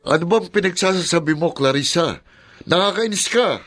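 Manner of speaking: high, irritated snap; annoyed outburst. Acted. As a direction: brush off the accusation with annoyance. Husband irritated at wife's accusation. (inis na pagsagot sa asawa)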